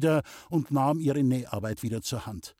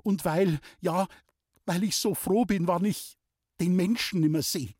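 holding back sobs, trembling; shaky breathless pleading; 6 semitones higher than usual. Acted. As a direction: voice breaking, tearful. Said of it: "leises Schluchzen".

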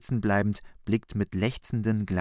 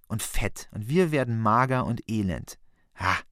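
flaring up. Acted. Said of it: "Christus auffahrend".

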